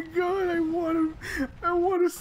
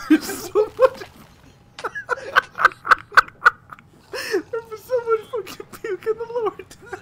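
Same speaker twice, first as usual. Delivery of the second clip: laughing; 6 dB louder than usual. Real, not acted. Laughing-crying at puke.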